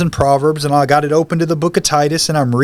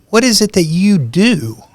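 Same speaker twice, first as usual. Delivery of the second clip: higher, slow, awed question; awed question to the stranger, pitched up; hushed wonder; 8 semitones higher, 3 dB louder than usual. Retold or imitated. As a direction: ask it slowly, half in awe.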